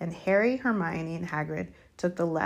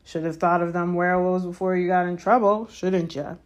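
gleeful; 4 dB louder than usual. Acted. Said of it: "with his voice cracking with glee".

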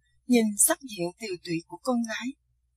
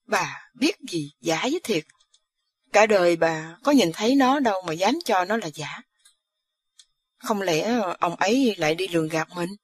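scolding husband; 2 semitones lower than usual. Acted. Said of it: "hứ một tiếng trấn áp vợ".

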